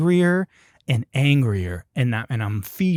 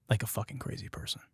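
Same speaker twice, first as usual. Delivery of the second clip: unvoiced whisper; 4 semitones lower, 13 dB quieter, faster than usual. Telling how he smiled crazily after the horn, whispered. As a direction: breathe it out like a crazy person. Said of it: "I start laughing".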